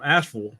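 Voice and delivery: Asheville said as ASH-ful; local pronunciation. Shown as a demonstration. Telling viewers how locals say Asheville, local pronunciation. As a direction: squash the end of Asheville to "-ful". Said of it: "That's how you say it".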